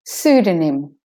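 "Pseudonym" as SOO-duh-nim; de-stressed O. Shown as a demonstration. Teacher repeating for learners, "Pseudonym" with schwa O. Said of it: "O is de-stressed".

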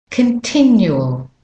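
continual with weak "kuhn" and strong TIN; stress on TIN. Shown as a demonstration. Teacher introducing the word, TIN stressed in continual. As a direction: hit the second syllable of continual. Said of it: "And tin is the stressed syl".

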